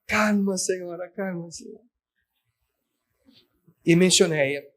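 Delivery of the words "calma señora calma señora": soothing. Retold or imitated. Pastor calming the crying woman.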